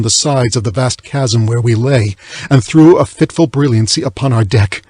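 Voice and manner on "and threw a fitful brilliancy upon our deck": ordinary delivery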